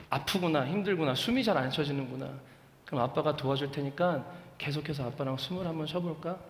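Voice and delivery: calm her like a patient dad; gentle soothing. Retold or imitated. Father softly soothing his daughter while breathing with her.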